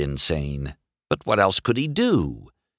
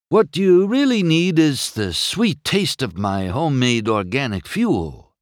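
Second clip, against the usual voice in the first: eager pitchman; 7 semitones higher, 3 dB louder than usual. A narrator's reading. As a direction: pitch your homemade product. Hippie character pitches his fuel.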